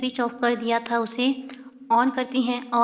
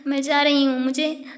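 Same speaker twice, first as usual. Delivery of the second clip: angry exit; 5 dB louder than usual. Acted. Jay storms off.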